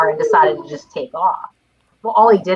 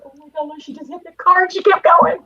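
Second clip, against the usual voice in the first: imitating a scandalized neighbor, pitch climbing; shocked; 4 semitones higher than usual. Neighbor reporting a hit car, shocked. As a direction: build in disbelief, higher toward the end.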